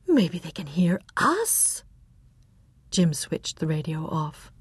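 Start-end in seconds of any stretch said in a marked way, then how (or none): 0.1-1.8 slow, unvoiced whisper. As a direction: hush it so no one overhears. Afraid of being overheard.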